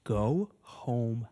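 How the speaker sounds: slow, low stern mother; hint of an angry mom ordering. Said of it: "And she's like".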